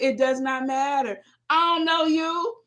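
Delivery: high, emphatic mock protest; acted-out squabbling comeback; indignant retort. Acts out her side of argument.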